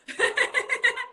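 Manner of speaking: mock-frazzled sigh; disheveled sigh. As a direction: let out a frazzled puff of breath. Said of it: "I'm a bit like".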